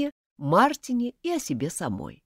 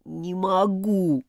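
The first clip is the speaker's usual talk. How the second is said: moaning; much slower than usual. Acted. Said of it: "простонал Мартин".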